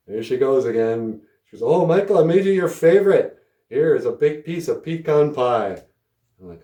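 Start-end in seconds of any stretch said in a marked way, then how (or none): 1.6-5.8 put-on high, loud, doting old lady, slowing at the end; sweet old lady. Grandma's friend telling his grandma about the pie, doting high voice. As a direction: coo like a proud doting grandma.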